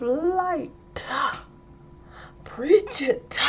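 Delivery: slow, high, stretched sermon cries; mock preacher. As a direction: punch every ending with a preacher's "-ah". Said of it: "Okay, I'm sorry".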